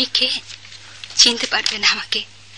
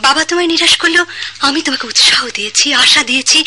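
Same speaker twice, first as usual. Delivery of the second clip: heated reproach; 2 semitones higher, 4 dB louder, faster than usual. Acted. Champa reproaches Jamal.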